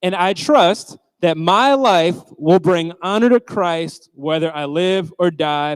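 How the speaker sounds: slow, measured reading aloud together; leading a room in reciting a verse; group scripture reading. Shown as a demonstration. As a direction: read the verse slowly with the crowd. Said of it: "we're gonna read it out loud together twice".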